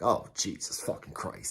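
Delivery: muttering to himself as they cuff him, soft and exasperated. Retold or imitated. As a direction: sigh it out to yourself, fed up. Exasperated thought in cuffs.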